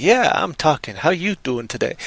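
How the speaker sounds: lightly imitated mellow, laid-back talker; sit back and say it softly, mellow. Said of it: "has that mellow, just sort of".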